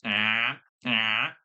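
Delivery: imitated country twang; country accent. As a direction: mimic a country accent's drawn-out vowel. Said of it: "talking with a country accent".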